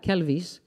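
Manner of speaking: Kelvis said as a famous singer's name with a hard K in front; Kelvis, KEL-vis, like the singer's name; careful Kelvis like the singer's name. Shown as a demonstration. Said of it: "like Elvis with a K".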